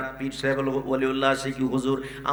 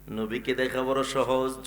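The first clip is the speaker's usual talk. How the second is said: ordinary delivery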